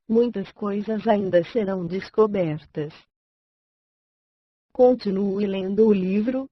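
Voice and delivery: synthetic computer reading voice, bright and even; chipper text to speech voice. Real, not acted. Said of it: "Voz sintetizada, I B M Voice, voz Raquel". (voz sintetizada animada)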